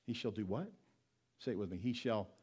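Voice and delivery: ordinary delivery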